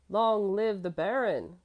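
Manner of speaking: loud, slow cheering yell; boy cheering the Baron at the top of his lungs; joyful scream. A narrator's reading. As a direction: cheer with all your might. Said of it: "Kurt screamed now with all his might".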